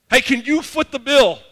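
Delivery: high, loud, drawn-out mock request; imitating a cheeky petitioner at full volume; bold ask. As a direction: brazenly call out a big favor. Modernized bold request to king.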